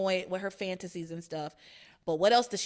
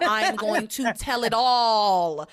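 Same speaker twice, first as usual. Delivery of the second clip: laughing; 6 dB louder, slower than usual. Real, not acted. Jokes about snitching.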